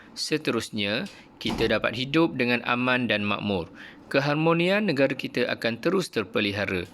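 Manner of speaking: a hint of a mother explaining patiently; understated motherly voice; lightly voiced Puan Nurul. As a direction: explain it like a caring mum. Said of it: "jelas Puan Nurul".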